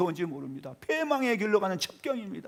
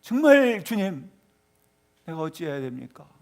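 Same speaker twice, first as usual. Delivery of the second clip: heart-torn plea; 5 dB louder than usual. Acted. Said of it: "찢어지는 마음".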